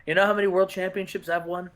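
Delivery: a hint of a brooding wrestler cutting a low-key promo; Dean Malenko promo. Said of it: "And Dean's like".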